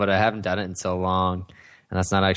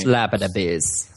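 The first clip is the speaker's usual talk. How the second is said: movie line quote; 2 semitones lower, slower than usual. Retold or imitated. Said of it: "It's a line from I Love You, Man".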